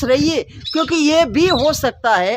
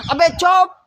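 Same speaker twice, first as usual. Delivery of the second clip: angry peacock. Acted. Peacock silences the chattering crow, a sharp angry snap. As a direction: shut the crow up at once. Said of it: "मोर ऐसे गुस्से में".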